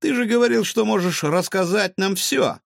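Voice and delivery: high, loud exclamation; exclaiming. Acted. Gavrosh presses the cat, exclaiming. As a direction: call him out on his promise. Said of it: "воскликнул Гаврош".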